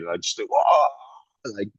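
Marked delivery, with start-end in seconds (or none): 0.5-0.9 big, high, loud mock whoa; over-exaggerated surprise. Actor mocking the take directors keep, over-exaggerated surprise. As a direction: overact the shock until it looks stupid. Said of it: "I look completely stupid".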